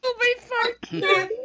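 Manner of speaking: high, slow, strained wail; eating sour candy. Real, not acted. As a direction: drag it out, wincing at the sourness. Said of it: "that's really sour".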